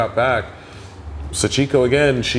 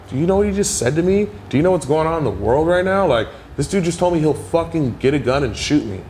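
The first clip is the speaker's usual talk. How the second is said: agitated shout; 5 semitones higher than usual. Retold or imitated. Delivery guy shouting at neighbor.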